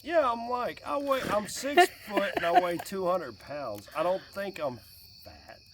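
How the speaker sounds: indignant protest. Real, not acted. Protesting he's not fat.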